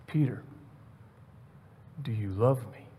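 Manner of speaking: soft, low, pausing after the name; intimate question. Acted. Jesus asking Peter, intimate and quiet. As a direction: ask again quietly, with space. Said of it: "this very intimate conversation".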